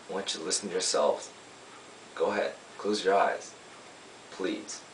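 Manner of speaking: lightly acted lawyer starting a story; lawyer's summation. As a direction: gently lead the jury into a story with long pauses. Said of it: "I play a lawyer".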